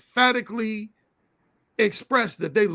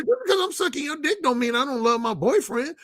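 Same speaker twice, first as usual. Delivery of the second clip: higher-pitched imitation of her insisting; retold passionate protest; 5 semitones higher than usual. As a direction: protest earnestly as the quoted woman. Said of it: "she got real passionate about".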